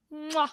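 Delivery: a smacking air kiss; kiss sound. Real, not acted. Host signing off to listeners with an air kiss. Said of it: "I don't know why I kissed".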